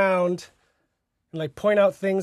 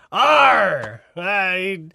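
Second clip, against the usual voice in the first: lightly voiced pirate, slow; a hint of a theme park pirate; much slower than usual. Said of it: "give us your best pirate".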